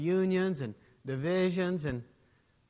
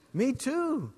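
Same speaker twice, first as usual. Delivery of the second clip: lightly voiced eager man, pitched higher; chirpy, keen agreement; eager second guy; 9 semitones higher, 4 dB louder than usual.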